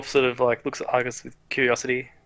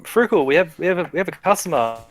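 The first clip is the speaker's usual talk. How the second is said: lightly raised calling voice, a little higher; 4 semitones higher, 4 dB louder than usual. Acted. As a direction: call to someone in the back. Boy calls smith to customer.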